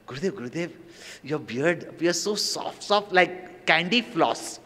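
slow, soft, dreamy compliment; a hint of a cooing young devotee; sweet girlish coo. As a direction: coo it slowly, like a smitten girl. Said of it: "she tells Gurudev".

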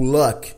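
luck with short open vowel; English luck. Shown as a demonstration. Teacher comparing luck with buck. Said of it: "bem parecida com o buck".

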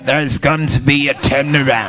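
mimicking careful British diction; imitated British accent. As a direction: copy a British accent, word by word. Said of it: "say with your British accent".

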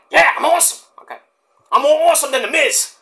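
hammed-up boastful wrestler; Mike Awesome impression. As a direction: brag like a big-headed wrestler. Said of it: "Mike Awesome impression".

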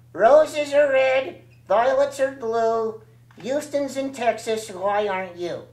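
sing-song rhyme read slowly; poem recital. Acted. Dummy recites a second poem.

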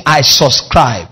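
call to repeat. Acted.

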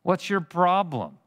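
scoffing repeated question; mocking taunt. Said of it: "they are mockingly saying".

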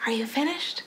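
usual speaking voice

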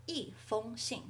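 一 falling sharply before level 封 in 一封信; fourth-tone 一. Shown as a demonstration. Teacher showing the tone change before feng, 一 in fourth tone. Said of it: "It becomes a fourth tone".

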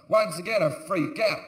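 ordinary talk, nothing marked

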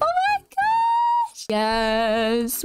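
sung out, very high and slow; squealing oh my gosh at level fifty; thrilled squeal. Real, not acted. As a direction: sing the joy out high and long. Finally reaches level fifty.

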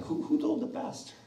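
alarmed whisper; whispered worry. Retold or imitated. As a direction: whisper it like a guilty secret. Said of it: "you're like".

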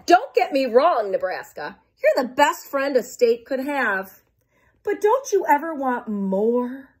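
pleading, slowing at the end; restless Kansas. Acted. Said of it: "said Nebraska".

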